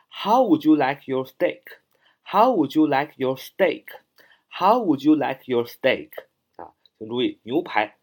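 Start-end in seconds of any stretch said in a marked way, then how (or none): 0.1-6.1 一字一顿地放慢念例句; 像老师领读一样慢慢念; 慢速重复示范. Shown as a demonstration. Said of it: "所以用how". (老师给学生领读，放慢速度)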